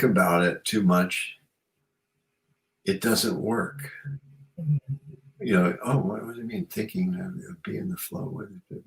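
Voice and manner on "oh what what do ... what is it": whispered puzzled inner voice. Retold or imitated. Imagining someone puzzled by her advice, whispered. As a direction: whisper it like a confused thought.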